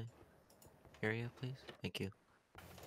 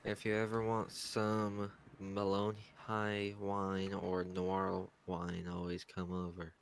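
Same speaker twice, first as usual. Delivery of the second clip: bored barkeep. Acted. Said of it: "You sound like a barkeep that's just given up on wanting to do his job".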